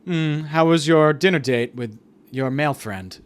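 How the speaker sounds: slow, pointed mock politeness; acted passive-aggressive small talk. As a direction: ask with drawn-out, icy civility. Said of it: "We kind of just passive aggressively".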